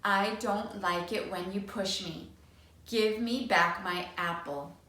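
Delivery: steady, firm model line; slow and firm. Acted. Teacher modelling a firm big voice. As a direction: show him the big voice. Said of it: "She speaks slowly and firmly".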